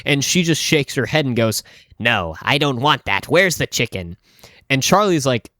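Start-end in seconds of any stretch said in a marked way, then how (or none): 2.0-3.3 imitating a customer's expressionless refusal, lower; lightly voiced, unimpressed lady; deadpan refusal. Customer rejecting the clerk's directions, deadpan. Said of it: "no expression". 3.3-4.2 imitating an expressionless customer's question; understated, insistent demand; deadpan demand. Customer asking the clerk for chicken, deadpan. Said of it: "no expression".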